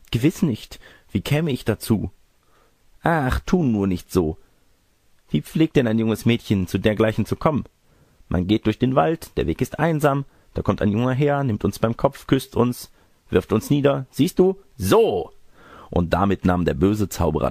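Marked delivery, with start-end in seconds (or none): 0.1-2.1 higher-pitched, lightly put-on granny protest; protesting fake grandmother. Disguised wolf denies loose acquaintances, lightly voiced protesting granny. 3.0-15.3 insinuating fake grandmother. Disguised wolf tells the girl how it happens, high insinuating granny voice building.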